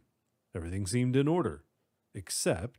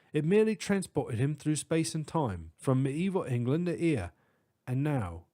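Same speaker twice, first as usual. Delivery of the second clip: put-on British accent; 3 semitones higher than usual. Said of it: "distinct British accent".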